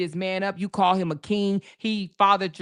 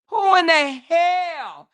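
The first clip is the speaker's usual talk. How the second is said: incredulous outburst; 8 semitones higher, 7 dB louder, slower than usual. Real, not acted. Indignant rhetorical question.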